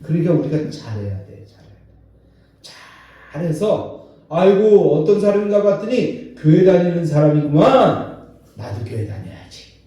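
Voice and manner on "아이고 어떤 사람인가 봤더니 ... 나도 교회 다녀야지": admiring outsider. Retold or imitated.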